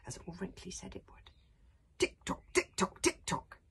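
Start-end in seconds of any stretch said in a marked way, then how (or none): 2.0-3.6 ticking clock imitation. A narrator's reading. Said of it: "ticking thing began to tick louder".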